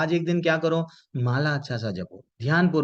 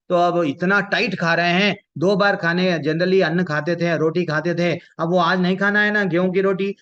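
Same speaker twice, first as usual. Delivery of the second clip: louder, higher mock-indignant retelling; mimicking devotee's excuse; 4 semitones higher, 4 dB louder than usual. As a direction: imitate a devotee eagerly justifying overeating. Mimicking devotees who overeat on fast day. (भक्त के बहाने की ऊँची आवाज़ में नकल)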